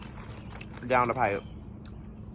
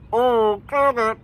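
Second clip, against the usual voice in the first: gag it; 9 semitones higher, 8 dB louder, slower than usual. Real, not acted. Mock gagging exclamation.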